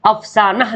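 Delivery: अफसाना ending "-nah", with sounded "h"; as written. Shown as a demonstration. Teacher reading out the spelling, अफसाना as "af-saa-nah". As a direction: end अफसाना on an audible "h". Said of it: "लिखा हुआ है".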